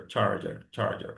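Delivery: charger with a curled r, trailing off softly; repeated American charger. Shown as a demonstration. Teacher drilling charger with the students. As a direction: repeat charger, r held in the mouth. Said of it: "bien prononcer charger".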